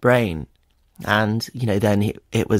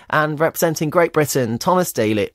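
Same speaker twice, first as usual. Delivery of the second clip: retold announcer; 6 semitones higher than usual. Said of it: "and they were like".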